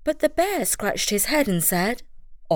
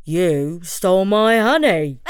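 mocking monkey; 4 dB louder, slower than usual. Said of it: "laughed the monkey".

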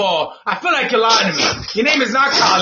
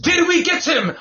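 put-on higher-pitched, tentative go at a Ghana accent; attempted Ghana accent; 7 semitones higher than usual. Host unsure he can do Ghana, attempted Ghana accent. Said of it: "if that's a Ghana accent".

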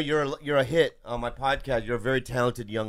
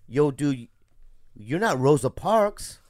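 mock angry rant; 9 semitones higher, 5 dB louder than usual. Mock rant about the chair.

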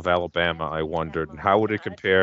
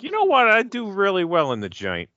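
high, loud, cocky imitation of a would-be convict; mock confident convict; 12 semitones higher, 3 dB louder than usual. Host imagining someone eager for prison, high and cocky. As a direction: boast about thriving in prison. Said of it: "people outside of prison who are like".

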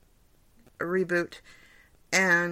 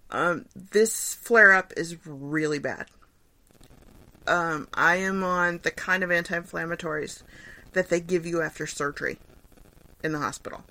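woozy from medication. Real, not acted. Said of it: "I'm a little woozy from my drugs".

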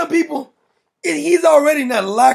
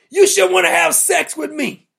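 higher, mocking woman's voice; 4 semitones higher than usual. Mocking the Rashida woman, put-on higher voice. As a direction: parody her earnestly.

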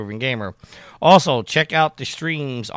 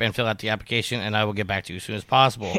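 fast auctioneer patter; 2 semitones lower, faster than usual. Real, not acted. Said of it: "sound like an auctioneer".

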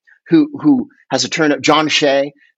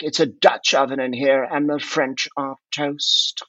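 mock soccer announcer. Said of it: "they'll be like".

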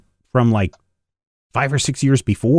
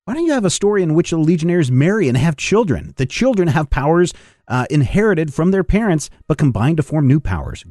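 put-on eager young fan letter voice; 5 semitones higher than usual. Reading a fan's letter aloud.

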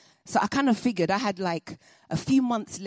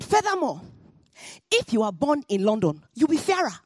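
higher, louder mock-lecturing schoolgirl; imitating the bully; 6 semitones higher, 4 dB louder than usual. The bigger girl lecturing Ayodele, higher and louder mock-superior. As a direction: lay out the taunt like proof, pitched up.

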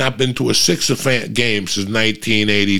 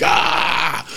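1 mock cheer; 8 semitones higher than usual. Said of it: "They're like".

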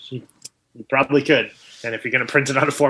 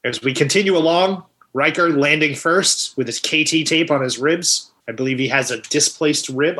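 mock sports commentary. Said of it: "let you do the play-by-play".

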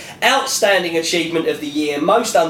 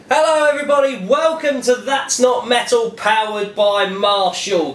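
upbeat show intro; 4 semitones higher than usual. Shown as a demonstration. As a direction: kick off the show with energy. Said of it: "let's get on with the show".

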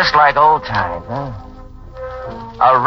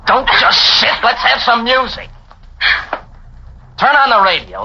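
insistent; 8 semitones higher than usual. Acted. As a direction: push it as an order. Insisting after quiet ask.

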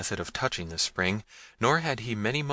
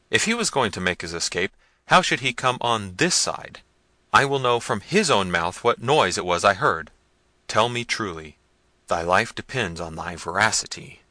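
louder, hard demanding voice; angry prince; 6 dB louder than usual. Acted. Prince interrogating the peasant, angry. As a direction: press him for the truth. Manfred berating servant and peasant.

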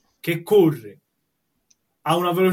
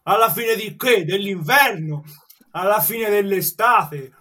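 sarcastic; 3 semitones higher than usual. Acted. Barman mocks promise to pay.

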